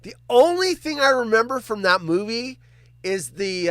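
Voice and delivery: usual speaking voice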